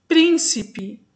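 teacher's demo of "Príncipe", "Prín" strongest; stress on first syllable. Shown as a demonstration. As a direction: hit the first syllable of "Príncipe", then drop. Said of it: "antepenúltima sílaba".

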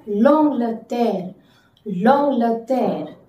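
L'Angleterre slowly, nasal long-gle-tair; slow careful model word; slow French model. Shown as a demonstration. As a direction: stretch out L'Angleterre. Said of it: "so that's why L apostrophe".

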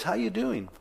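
high, falsely cheery boss voice; mock-innocent greeting. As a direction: play the sly boss acting like nothing happened. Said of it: "just with a straight face".

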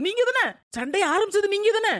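pin the blame on her; daughter-in-law accusing mother-in-law of starting the fight. Acted. Blaming mother-in-law in quarrel.

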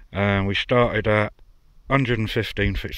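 talking around a pipe stem; pipe in mouth. Real, not acted. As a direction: speak with a pipe clenched in teeth. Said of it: "sorry, I've got my pipe in my mouth".

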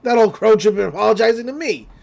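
loud, fast indignant protest; indignant Stan. Retold or imitated. Stan refusing to apologize to the witch, indignant. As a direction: bristle with outrage. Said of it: "He's like".

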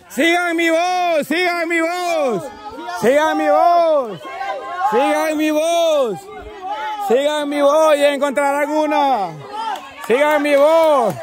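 repeated, sustained call with falling endings. Real, not acted. Host guiding players toward hidden item, calling out. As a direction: chant it out as a beacon for the searchers.

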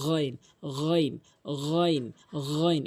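গইন with a voiced gargled gh; throaty ghain. Shown as a demonstration. Teacher drills the letter, throaty গইন. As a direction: start গইন at the throat's upper end. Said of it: "এভাবে উচ্চারণ করবেন".

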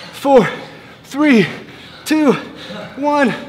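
counting down loud and strained; loud straining count. Real, not acted. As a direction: push out the last numbers, straining. Straining through the last plank seconds.

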